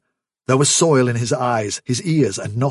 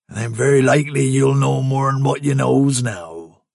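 the man threatening Fiver, gloating rustic menace; menacing rustic man; 2 semitones higher, 3 dB louder than usual. Acted. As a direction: gloat over the victim's ignorance. Man's menacing speech.

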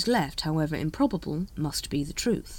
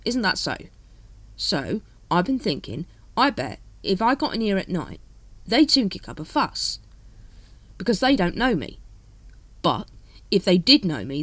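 lightly voiced captain reasoning aloud; watch captain, coaxing; 3 semitones higher, 4 dB louder than usual. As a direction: feel out a favour, step by step.

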